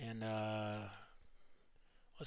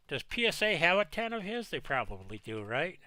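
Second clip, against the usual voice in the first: pen in teeth; 2 semitones higher than usual. Real, not acted. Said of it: "pen in my mouth".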